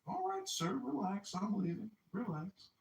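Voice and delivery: squeaky scared backing off; calm the big guy down in a tiny voice; mock timid appeasing; high nervous placating. Himself placating bouncer, high.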